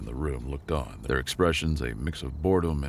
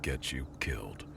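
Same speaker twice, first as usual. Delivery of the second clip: whispering; 2 semitones lower, 9 dB quieter than usual. A narrator's reading. Grim lesson of survival.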